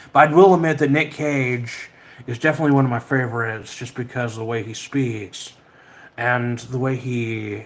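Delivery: half-hearted film-star impression; Nick Cage. Streamer describing a favourite actor, in weak impersonation of him. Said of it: "that's a terrible Nick Cage impression".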